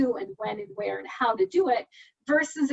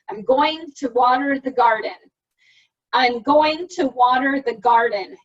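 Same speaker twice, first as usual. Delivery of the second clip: louder, deliberate practice phrase; practice with good volume; 6 dB louder than usual. Shown as a demonstration. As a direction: say it like a daily drill, strongly. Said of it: "Every day I would sit down or I would stand".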